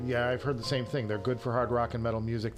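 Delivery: ordinary talk, nothing marked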